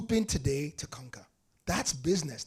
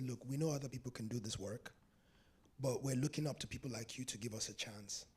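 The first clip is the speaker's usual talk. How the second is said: humble plea; 5 semitones lower, 12 dB quieter than usual. Retold or imitated. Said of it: "stepped back and said".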